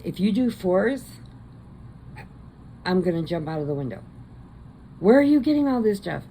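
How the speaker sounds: put-on playful disbelief at the toddler; hammed-up exasperated shout; exasperated mother. Kristen exasperated, voiced in story.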